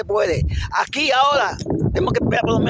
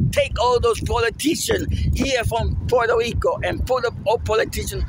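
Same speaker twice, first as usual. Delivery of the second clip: raised, heated, higher-pitched rant; mad; 5 semitones higher than usual. Real, not acted. Vlogger telling his people the towns are corrupt, mad and heated. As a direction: vent real anger at corrupt politicians. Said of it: "I'm sorry if I'm mad".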